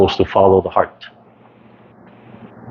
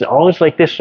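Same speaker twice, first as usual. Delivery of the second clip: demonstrating a forced, held manner; 7 semitones higher than usual. Shown as a demonstration. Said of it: "they talk like this".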